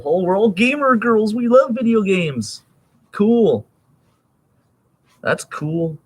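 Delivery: high, slow, airy mock girl voice; mocking gamer girls. Mocking girls who suddenly claim to love games, high and slow. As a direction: parody the fake gamer girl, high and drawn out. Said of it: "it's like".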